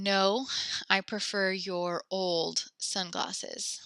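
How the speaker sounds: slow model sentence. Shown as a demonstration. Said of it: "you're just saying".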